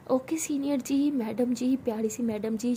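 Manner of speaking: slow, sugary sarcastic politeness; mock respect. Mocking her senior with fake sweetness, slow. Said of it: "अब respect से बोलती हूँ".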